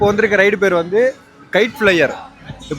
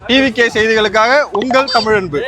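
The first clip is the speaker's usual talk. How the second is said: slow, formal newsreader sign-off; news reporter sign-off; slower than usual. Pretend.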